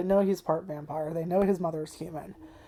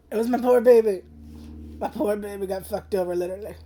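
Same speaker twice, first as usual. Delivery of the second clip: real crying; 4 dB louder than usual. Real, not acted. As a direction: cry the words out for a beloved character. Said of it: "Sorry, I am crying".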